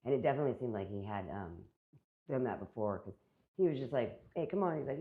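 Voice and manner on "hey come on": higher, louder mock call to come along; imitated casual beckoning. Woman retells officer coaxing her to come along, imitated beckoning. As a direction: toss it out as a pushy invitation, retold.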